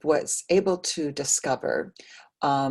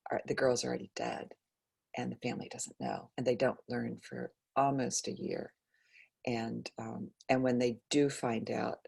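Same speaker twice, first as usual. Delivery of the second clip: near-whisper, quicker, grieving; hushed and sad; 6 dB quieter than usual. Real, not acted. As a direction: breathe it out, barely voiced. Telling of the girls' deaths.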